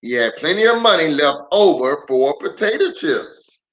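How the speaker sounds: storybook read-aloud with lively swings; reading to children. Acted. Pastor reading a picture book aloud to kids online.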